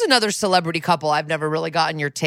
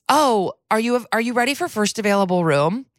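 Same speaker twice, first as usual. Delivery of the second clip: bright, higher customer-service lilt; chirpy clerk; 5 semitones higher than usual. Retold or imitated. Hotel clerk checks on a dozing guest, high and polite. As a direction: ask sweetly like a polite clerk. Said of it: "she goes".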